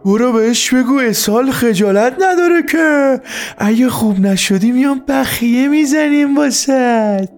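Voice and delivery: very high, drawn-out furious holler; angry yell. A narrator's reading. Angry father yells orders for the uncle, enraged shout. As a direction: bellow across the house in a high, strained voice. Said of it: "با عصبانیت فریاد زد".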